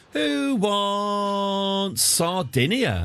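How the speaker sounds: slow, drawn-out auctioneer call. Pretend. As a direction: stretch it out like an auctioneer. Handing out lands theatrically.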